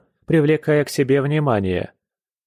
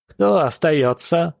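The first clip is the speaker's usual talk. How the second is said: рявкнула; 5 semitones higher, slower than usual. A narrator's reading. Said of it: "рявкнула Ваан".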